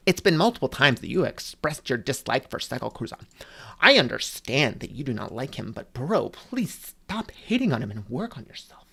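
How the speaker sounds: lightly voiced prim scolder talking down to a teen; imitating fans who scold him like a rowdy teenager at a store; mock scolding adult. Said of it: "talk to me like, like a rowdy teenager".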